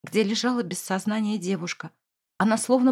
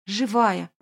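relieved exhale. Acted. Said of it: "выдохнул Мустафа".

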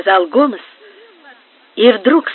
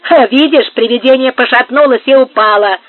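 mocking laugh; 3 semitones higher, 7 dB louder than usual. A narrator's reading. Marcos to Gomes after firing at the ghost, mockingly amused. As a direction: crow over it with a spoken ha. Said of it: "засмеялся Маркос".

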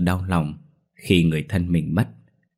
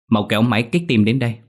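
urgent order; 4 semitones higher, 3 dB louder, faster than usual. Acted. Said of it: "Bác sĩ Tường ra lệnh".

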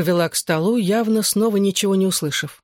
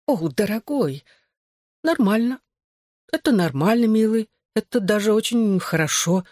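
higher, flustered mother murmuring; mother caught off guard, murmuring reassurance higher; 5 semitones higher than usual. A narrator's reading. Mother reacting to her son's confession, flustered and higher. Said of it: "забормотала она изменившимся голосом".

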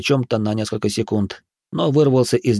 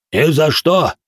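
loud, high shout; yelling; 6 semitones higher, 5 dB louder, slower than usual. Acted. The giants yell that Khan Baba can't lift weights without chicken, loud and high. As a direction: bellow the refusal together. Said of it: "завопили гиганты".

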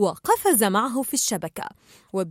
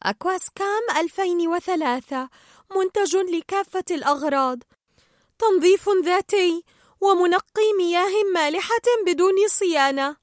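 slightly put-on, higher brochure-reading voice; reading a booklet aloud; 6 semitones higher than usual. A narrator's reading. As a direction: read it out like product copy, pitched up. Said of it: "قرأت بيتش جزءا من كتيب".

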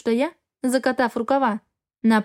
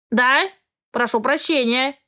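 croaking raven; slower than usual. Acted. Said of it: "каркнул он".

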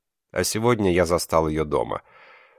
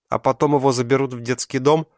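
bitter; 9 semitones higher, 5 dB louder than usual. Acted. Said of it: "с горечью в голосе".

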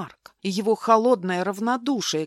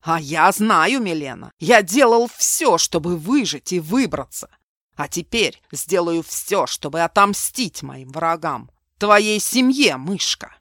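furious vow; 7 dB louder than usual. Acted. Mark vows revenge on her family.

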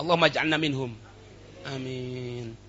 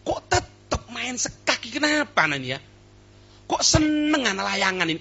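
lightly voiced scolding of oneself, exasperated; mock self-scolding. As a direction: scold yourself half-jokingly, shaking your head. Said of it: "Jelekno awak, Pak".

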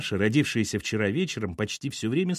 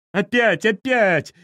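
high, loud repeated cries; wailing excitedly; 10 semitones higher, 7 dB louder, slower than usual. A narrator's reading. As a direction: exclaim in thrilled lament. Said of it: "запричитали в один голос деды". (восторженно причитая)

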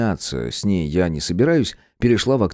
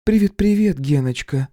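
much higher, sour sweet woman's voice; grimacing woman Irka; 7 semitones higher than usual. Acted. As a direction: greet him through a wry face. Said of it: "скривилась моя бывшая".

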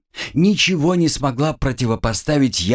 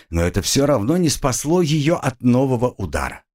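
ordinary delivery

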